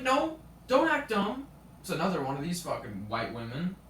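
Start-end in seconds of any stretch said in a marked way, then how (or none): 0.0-1.5 high, loud, drawn-out teacher imitation; mock scolding. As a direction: snap at the student as the accusing teacher. Imitates teacher accusing the student.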